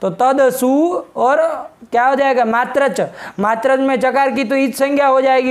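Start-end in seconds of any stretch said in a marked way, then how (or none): 0.1-1.0 तदसु slowly, with a clear voiced d; correct pronunciation. Shown as a demonstration. Teacher modelling the right form, slow तदसु with d, not t. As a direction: stretch out तदसु, keeping the d of तद voiced. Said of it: "तद शब्द तो पता दिया ना".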